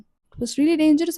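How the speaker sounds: drawn out very slowly for weight; "dangerous" stretched, each word slow and heavy; slow emphatic. Real, not acted. Telling viewers how scary the stalking was, slowly and gravely.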